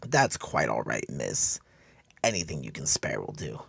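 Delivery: lightly voiced frail old man being gracious; understated humble old man; old beggar. Old vet voiced by narrator.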